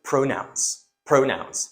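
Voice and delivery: "pronouns" with a long, full o in the first syllable; common mispronunciation. Shown as a demonstration. Teacher showing learners a common error, "pronouns" with a full long o. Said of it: "most of the people I hear from".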